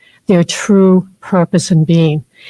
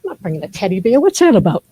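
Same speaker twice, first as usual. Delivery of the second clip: mock resistant reply; 3 dB quieter, faster than usual. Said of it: "Shakti would say".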